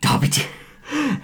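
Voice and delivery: high, slow falsetto; put-on voice. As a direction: stretch it out in a squeaky high voice. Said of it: "As you can hear, I am not Matt".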